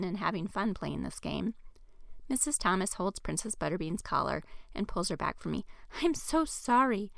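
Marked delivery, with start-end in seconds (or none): 6.0-7.1 higher, slow, worn-out apology; exasperated. Acted. Missus Thomas apologizing for her jumping dog, exasperated. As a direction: sigh out the apology. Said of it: "she says with an exasperated voice".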